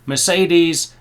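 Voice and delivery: MERCEDES said 'mer-SAY-deez'; English Mercedes, stressed on SAY; English pronunciation. Shown as a demonstration. Listing cars as the British say them, English pronunciation of Mercedes. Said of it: "we say Mercedes and not".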